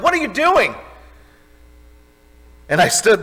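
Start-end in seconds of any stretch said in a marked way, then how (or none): 0.0-0.7 high, startled mock yell; imitating a startled woman shouting at him; retold yell. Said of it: "she yelled".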